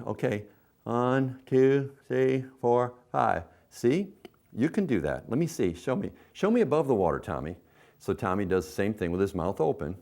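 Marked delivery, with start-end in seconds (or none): 0.0-7.6 put-on higher, cheerful counting for a toddler; encouraging mom voice. Shown as a demonstration. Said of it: "show them with your mouth open".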